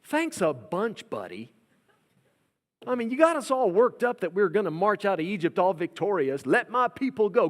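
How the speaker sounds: a hint of bitter mockery; sarcastic Israelites. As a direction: throw his words back at him. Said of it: "go back to Moses and say".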